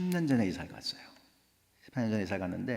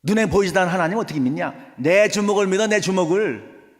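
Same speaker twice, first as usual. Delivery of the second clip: loud, raised-pitch angry rant; angry father; 7 semitones higher, 9 dB louder than usual. Acted. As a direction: shout down your child's faith, furious. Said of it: "막 화를 내".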